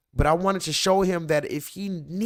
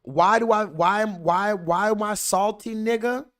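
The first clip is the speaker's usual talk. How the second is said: indignant outburst; 8 semitones higher, 4 dB louder than usual. Real, not acted. Outraged reply to voice message.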